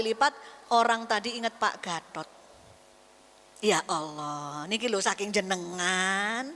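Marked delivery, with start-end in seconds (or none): 3.6-6.5 low, slow, accepting murmur to God; humble prayer. Retold or imitated. A believer praying low and slowly, accepting the problem.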